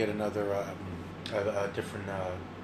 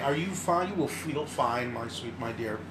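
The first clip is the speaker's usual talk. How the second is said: soft, soothing and slower; calm her like a caring nurse; soothing tender voice; 6 dB quieter than usual. Retold or imitated. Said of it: "She was like".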